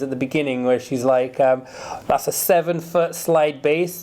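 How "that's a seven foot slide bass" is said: light, slightly slow Welsh accent imitation; a hint of a Welsh accent, unhurried; a singer's Welsh accent. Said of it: "That's my best Welsh accent".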